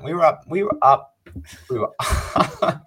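high, loud repeated lament; exasperated insistence. Real, not acted. Fan reliving a blown Super Bowl lead, exasperated.

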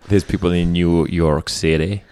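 a hint of a bad American accent; lightly put-on American accent, playing it up for listeners. Podcast host greets American listeners, lightly mock American accent. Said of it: "that's a terrible guy's American accent".

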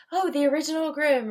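high, mock know-it-all voice; mocking imitation. Librarian imitating people citing Cinderella's sources, mocking. Mimicking people who cite originals.

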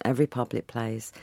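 ordinary delivery

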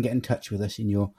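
deep low podcast voice. Shown as a demonstration. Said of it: "in your low, low voice".

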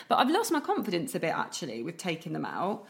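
usual speaking voice

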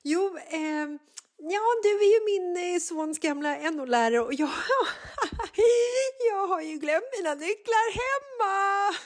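high, squeaky and laughing through the words; embarrassed laughing. Retold or imitated. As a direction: cringe at yourself while explaining. Embarrassed mother explains to teacher. (generad, hög röst som skrattar igenom orden)

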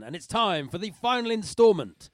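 big voiceover announcement; announcer. Acted. Hammed-up announcer intro for comedy segment.

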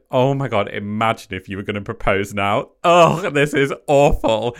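mock horror. Laughing at the proposal-ready table, hammed-up dismay. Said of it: "And I said".

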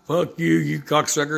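high, mocking taunt of the kid; teen yelling back. Biker imitating the teen driver's parting insult, high and mocking. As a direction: throw the kid's insult back, hammed up. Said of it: "he said".

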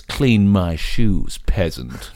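slow, lordly sneer; haughty command. Acted. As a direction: order it down to a servant. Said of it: "he looks down and he goes".

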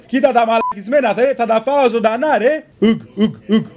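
a cop boasting to his buddies, lightly voiced; mock tough cop bragging. Prank caller imitating cop buddies' swaggering talk. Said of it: "κάθονται εκεί παρέα και λένε".

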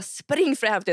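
lite höjt, återgivet rop; galet kommando. Retold or imitated. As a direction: imitera din egen galna order. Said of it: "jag var totalt galen". (galet kommando)

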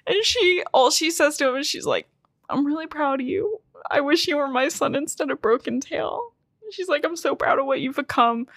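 high, emotional retelling; choked up over a beloved character; close to tears. Real, not acted. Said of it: "I'm gonna fucking cry again".

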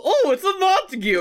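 high-pitched mock alarm; exaggerated high gasp of recognition; acted seal alarm. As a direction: cry out as a startled cartoon seal. Acted cry of the Capulet seals.

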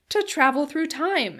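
excited exclamation. A narrator's reading. Very young man exclaiming at the idea of a time machine, excitedly. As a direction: exclaim it loud and high, stretching it out. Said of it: "exclaimed the very young man".

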